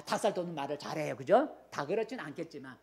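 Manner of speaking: ordinary talk, nothing marked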